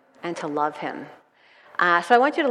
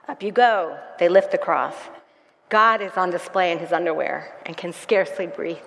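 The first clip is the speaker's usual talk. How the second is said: dramatic reading. Acted. Pastor reads dramatic passage.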